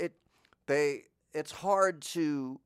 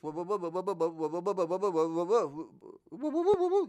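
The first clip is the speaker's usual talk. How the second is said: Curly's whoa; 5 semitones higher than usual. Shown as a demonstration. Imitating Curly's whoa in a lower voice. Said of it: "I do a lower version".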